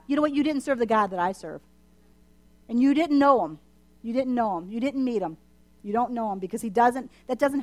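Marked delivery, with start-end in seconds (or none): none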